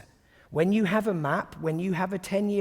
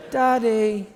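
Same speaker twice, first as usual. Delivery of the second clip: put-on louder child call; 4 semitones higher, 8 dB louder than usual. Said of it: "the voice would go like this".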